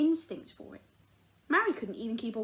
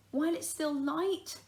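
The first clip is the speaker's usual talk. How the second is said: begging; 5 semitones higher than usual. Acted. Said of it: "begged Mary".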